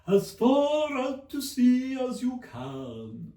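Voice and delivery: high, slow, loud excitement; excited. A narrator's reading. The dancers describe the quadrille, high and excited. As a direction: fling the words out to sea.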